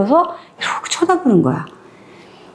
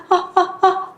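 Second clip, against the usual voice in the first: high, soft strained grunts; an old patient who can't get words out; straining old man, softly; speechless old man; 6 semitones higher, 4 dB quieter, slower than usual. Retold or imitated. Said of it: "이러면서 하니까".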